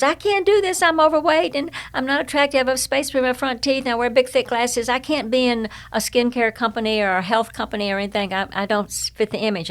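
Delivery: high, pleading voice of the doubting sister; sister's self-doubt. Retold or imitated. Quoting her doubting sister in a high, pleading voice. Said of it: "And my sister's".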